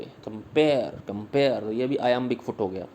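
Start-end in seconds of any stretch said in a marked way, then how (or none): 0.0-1.6 कंपेयर lower, weight on PARE; brief com, firm pare in कंपेयर; stress on second syllable. Shown as a demonstration. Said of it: "यानी दूसरे syllable पे".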